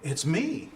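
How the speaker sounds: "me" drawn out with a rising pitch; a little emphasis on "me"; stress on ME. Shown as a demonstration. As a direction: lean on "me" and lift it at the end. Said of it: "put a little emphasis into".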